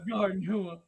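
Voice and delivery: "hua" as a drawn hoo-uh, chuckling; mimicked mispronunciation. Host echoing friend's slip, "hua" said as hoo-uh. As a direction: repeat "hua" in two syllables, laughing lightly. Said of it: "He said a garden hua".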